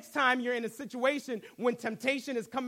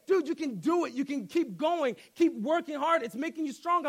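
put-on Russian accent; 3 semitones higher than usual. Workout buddy pushing him to keep going, mock Russian accent. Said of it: "he had this Russian accent".

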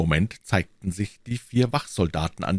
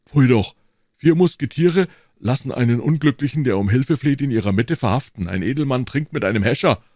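loud, raised scolding; indignant; 5 semitones higher, 5 dB louder than usual. A narrator's reading. Porthos shaming four musketeers over the arrest, indignant. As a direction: reproach them with disgust.

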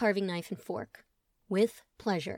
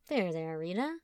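comforting; 2 semitones lower, 4 dB quieter than usual. Acted. Comforting stepmother.

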